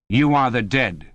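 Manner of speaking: hard, cold voice from behind; iron voice. A narrator's reading. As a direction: cut in like cold steel. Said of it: "said an iron voice behind them".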